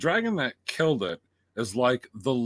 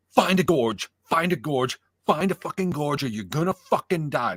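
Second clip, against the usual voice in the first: raised, insistent mock coaching; urgent warning; 3 dB louder than usual. Viewer retells coaching the dragon rider to escape, urgent warning. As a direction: urge the rider on, pressing harder. Retold yelling advice at dragon.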